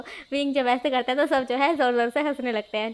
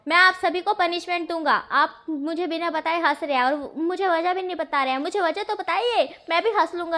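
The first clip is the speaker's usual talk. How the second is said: angry threat; 4 semitones higher than usual. Acted. Wing threatening the laughing family with punishment, angry. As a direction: threaten them like a cross little boss. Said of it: "उसे गुस्सा आ जाता है".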